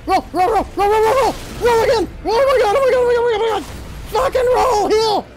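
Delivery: high, frantic rapid repeats; urgent pleading at a high pitch; panicked urging. Real, not acted. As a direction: gabble it high in a game panic. Panicking in a fight.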